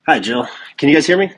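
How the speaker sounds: tinny headset mic sound; talking through headphone mic; headphones used as mic. Real, not acted. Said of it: "I'm talking through my headphones".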